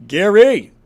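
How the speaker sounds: mock British heckler, loud bursts and rising "all right"; exaggerated British impression, punchy and insistent; Gary's British accent. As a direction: put on a hammed-up British accent. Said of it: "I know Gary's British".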